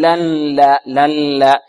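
لن لا with an audible n before lam; trace of nun. Shown as a demonstration. Teacher shows what to avoid, nasal n in لن لا. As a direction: hum an n into لن لا. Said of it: "يأتي بشيء من النون".

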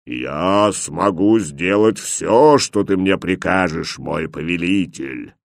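slow, far-off booming genie voice. A narrator's reading. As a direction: boom out like a mighty genie.

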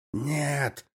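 sudden high strained cry of no; shout. A narrator's reading. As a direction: cry out as it dawns on you. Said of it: "крикнул Меликов".

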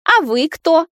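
lightly voiced young woman echoing back; mocking echo. A narrator's reading. Girlfriend mimics the granny's tone, a lightly voiced echo. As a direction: throw the question right back at her. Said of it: "в тон отвечает Наташа".

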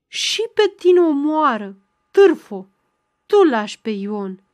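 put-on old woman roaring curses after Ana, furious; roaring after her. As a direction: bellow the insult after someone walking away. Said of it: "răcni după ea".

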